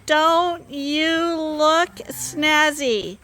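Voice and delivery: high, very slow, loud cooing; pet talk. Real, not acted. Cooing at freshly sheared sheep.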